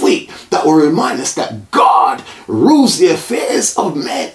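preacher's declarative closing prayer; fervent prayer. Real, not acted. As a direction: proclaim a blessing over the congregation. Prayer ends in commissioning.

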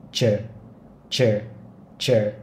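chờ said with lips rounded forward. Shown as a demonstration. Teacher modelling chờ with rounded lips. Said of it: "hơi chu môi ra trước".

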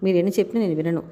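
fast, firm, no-arguments reply; a quick, adamant wife's refusal; flat refusal. Acted. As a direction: shut him down at once. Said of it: "అంది ఖరాఖండిగా".

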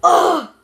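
loud, exasperated "ugh"; short, high groan of boredom. Real, not acted. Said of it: "I am extremely bored".

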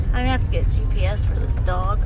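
talking while crunching chips. Real, not acted. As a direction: mouth full of chips. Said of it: "Sorry, I like eating chips".

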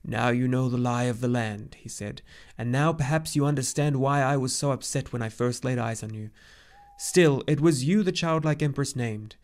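put-on serious old centaur laying it out; grave old centaur. Chiron explains, grave.

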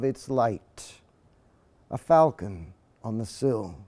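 measured, lyrical poetry reading; poem reading. Acted. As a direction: read it slowly as a poet at a reading. Reads his own poem aloud.

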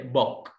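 "بك" with an open short o; open vowel. Shown as a demonstration. Teacher showing short O symbol, open vowel. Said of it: "مفتوح كده".

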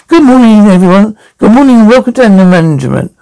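a touch of a chirpy counsellor, quick on the welcome; lightly voiced upbeat group leader; group leader greeting. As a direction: open the session like a cheery facilitator.

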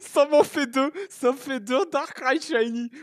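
fast, high, loud burst of joy; excited shouting. Real, not acted. Streamer gets a second shiny Darkrai, fast excited shouting. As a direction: rattle it off, overjoyed.

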